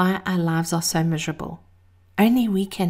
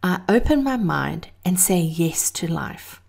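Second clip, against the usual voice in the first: breathy whisper. Shown as a demonstration. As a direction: whisper the affirmation. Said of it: "I love the affirmation".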